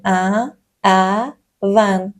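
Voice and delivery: slowly, spaced out; drawn out for learners to repeat; slow counting cue. Shown as a demonstration. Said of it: "et répétez le nombre". (آرام و کشیده)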